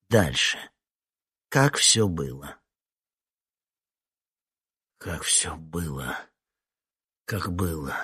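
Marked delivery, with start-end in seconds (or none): 5.0-8.0 softer, slow, falling repeat; quiet echo. Acted. The witness repeating the question to himself, softly. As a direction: murmur it back to yourself. Question echoed back inwardly.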